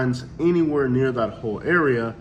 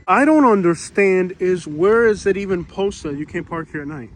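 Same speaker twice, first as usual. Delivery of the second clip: louder, higher frustrated questioning; real indignant rant; 4 semitones higher, 3 dB louder than usual. Real, not acted. Vlogger ranting to camera about unposted signs, indignant. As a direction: demand answers out loud. Outraged at the parking ticket.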